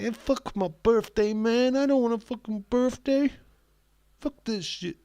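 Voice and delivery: loud, high mock American rant. Streamer voicing James's mum as an angry American. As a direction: spit it out like a fed-up American. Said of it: "I don't know why she turned into an American".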